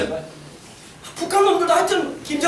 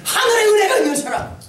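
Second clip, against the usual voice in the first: raised, emphatic pulpit delivery; impassioned preaching; 5 semitones higher than usual. Real, not acted. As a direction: build a ringing rhetorical question. Preaches a building rhetorical climax.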